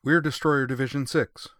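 high and loud, self-important. A narrator's reading. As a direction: puff up with importance. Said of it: "said Akatsuki importantly".

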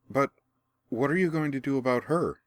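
put-on worried boy voice. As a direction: speak as an anxious boy. The boy asks.

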